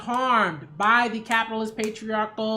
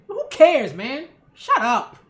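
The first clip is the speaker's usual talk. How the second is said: dismissive; 4 dB louder than usual. Real, not acted. Dismissing the tone complaint.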